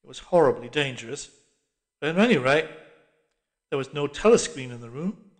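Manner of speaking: ordinary delivery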